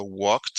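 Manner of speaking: walked, with the -ed said as a short t; English past tense. Shown as a demonstration. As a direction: say walked with a clipped t ending. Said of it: "se va a pronunciar en pasado". (walked con la terminación sonando como t)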